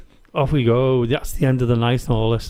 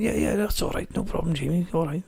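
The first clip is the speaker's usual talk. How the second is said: soft, higher-pitched easy reassurance; retold reassurance; 5 semitones higher, 7 dB quieter than usual. Friend on phone brushing off Jamie's trouble, soft imitated reassurance. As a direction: wave it off gently, imitating a friend. Voices Chris reassuring him.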